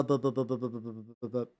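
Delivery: stuck on bu, stammering; stuttering. Real, not acted. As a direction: trips over the word, repeating bu. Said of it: "that is the combination of words that I meant to use".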